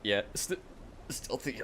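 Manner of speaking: hiccuping mid word; hiccups. Real, not acted. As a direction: talk through the hiccups. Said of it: "I cannot stop hiccuping".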